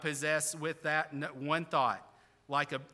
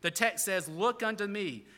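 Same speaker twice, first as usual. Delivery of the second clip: put-on broad Essex accent; 3 semitones higher, 3 dB louder than usual. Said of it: "The preacher began thus".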